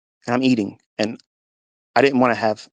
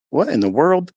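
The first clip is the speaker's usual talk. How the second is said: loud, astonished exclaim; floored by the news; amazed; 5 semitones higher, 5 dB louder than usual. Retold or imitated. Husband reacting to wife's positive test.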